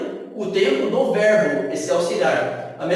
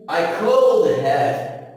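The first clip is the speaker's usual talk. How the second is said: "I could have" drawn out, "could" stressed; slow teacher model; much slower than usual. Shown as a demonstration. Teacher drilling the class, slow model. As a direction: say "I could have" slowly so they copy it. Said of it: "Eu poderia ter".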